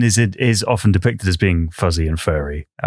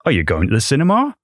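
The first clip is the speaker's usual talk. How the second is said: Norfolk lilt, slightly accusatory; Norfolk accent; 6 semitones higher, faster than usual. Shown as a demonstration. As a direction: ask it faintly accusing, Norfolk style. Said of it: "a Norfolk person would have the inflection".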